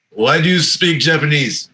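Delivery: lightly imitated Japanese accent. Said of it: "In a heavy Japanese accent".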